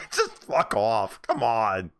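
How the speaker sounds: slow laughing. Real, not acted. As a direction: say it through a laugh. Laughing after the impression.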